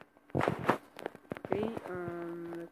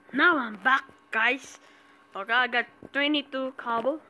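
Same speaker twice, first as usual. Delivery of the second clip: excited; 4 semitones higher, 8 dB louder than usual. Real, not acted. Excited return to viewers.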